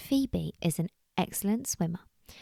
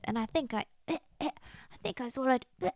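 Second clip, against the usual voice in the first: softer speech broken by little retches; mock gagging; 5 semitones higher, 6 dB quieter, much faster than usual. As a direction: splutter as if pondweed is stuck, playacted. Bunny gags on swallowed pondweed.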